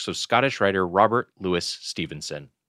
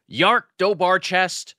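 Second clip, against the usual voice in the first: pirate voice; 2 semitones higher, slower than usual. Acted. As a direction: drawl it like an old pirate. Pirate-themed show intro.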